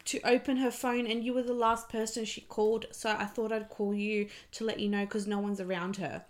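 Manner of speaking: put-on worried stranger on the phone, Greek accent. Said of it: "sorry about this accent".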